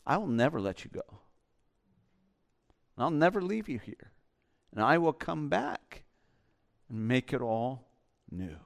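soft, low promise; tender reassurance. Retold or imitated. Jesus answering the hurting believer, soft tender promise. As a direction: gently reassure someone who feels abandoned. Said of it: "And Jesus comes back and says".

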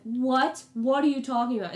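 loud, high, quick questioning; acted disbelief. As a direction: retell being floored by the news. Acts out disbelief at the charge.

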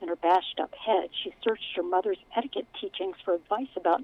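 steady storytelling read; story narration. A narrator's reading. Author reads her book aloud.

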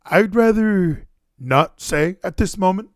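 slow, drawn-out mock evasive answer; evasive imitation. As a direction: imitate someone cagily stalling, word by word. Quotes friend's evasive answer.

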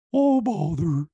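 Pooh catchphrase. Retold or imitated. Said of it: "the whole time".

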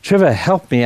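pleading as a dying young man, lightly voiced; dying man's plea. Pastor retelling a dying patient's cries to him, mild pleading. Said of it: "And he's crying out, saying".

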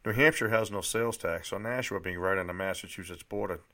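measured first-person narration with pauses between sentences; plain-spoken audiobook-style reading; memoir read aloud. A narrator's reading. Reads own book aloud.

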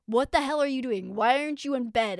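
retold yelling. Daughter imitating mom catching her up late, mildly yelled scolding. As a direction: imitate mom telling you off. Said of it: "yelling at me".

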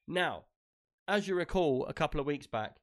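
talking through hiccups; hiccuping between words. Real, not acted. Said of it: "sorry, if I can stop hiccuping".

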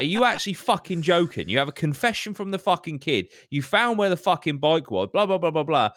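retold outraged complaint; indignant retort. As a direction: vent it in disbelief. Angry retort to police retold.

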